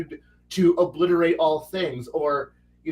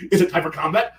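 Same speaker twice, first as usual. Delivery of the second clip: hammed-up combat monster getting more and more carried away; boastful battle brother; 2 semitones higher than usual. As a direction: brag like a power-gaming warrior reveling in carnage. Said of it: "and then he's like".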